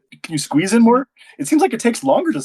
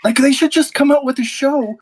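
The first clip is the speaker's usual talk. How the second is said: put-on old-timey news voice; 9 semitones higher than usual. Shown as a demonstration. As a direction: show how the old news anchors talked. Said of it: "people talking like this".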